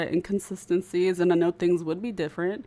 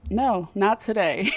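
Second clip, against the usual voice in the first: choked-up refusal; 2 semitones higher, 5 dB louder than usual. Real, not acted. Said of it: "I'm actually getting emotional".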